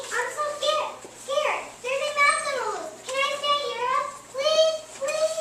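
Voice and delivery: high, loud, panicky begging; frightened pleading. Acted. Frightened elephant begs friend for shelter, high panicky pleading. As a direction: beg to be let in, terrified.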